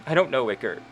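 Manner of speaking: halting, breaking voice as Penelope; tearful. Acted. Penelope answering Iker with tears, halting and upset. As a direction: hold back tears between words. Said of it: "and she just says".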